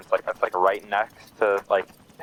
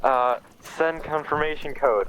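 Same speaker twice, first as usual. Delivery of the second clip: raised, slow radio request; 6 semitones higher, slower than usual. Retold or imitated. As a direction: drag it out like radio chatter. Radio voice in story.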